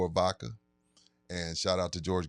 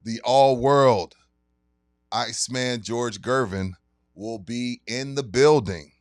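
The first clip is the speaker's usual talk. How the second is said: sponsor ad read. Acted. Host reads liquor store sponsor ad to listeners, hype announcer voice. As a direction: sell the event like a radio spot.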